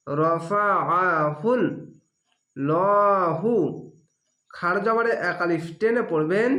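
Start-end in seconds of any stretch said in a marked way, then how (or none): 0.1-1.6 very slow, drawn-out Arabic reading of রফাআহুল; Quranic recitation demo. Shown as a demonstration. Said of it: "আইনটিকে মোটা করে গলা চিপে পড়বেন". 2.6-3.5 লহু read with a full, heavy লা; heavy lam recitation. Shown as a demonstration. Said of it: "মোটা করা হবে".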